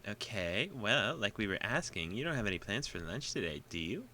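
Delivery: put-on high cheerful girl voice; Misha voice. Voices Misha in visual novel.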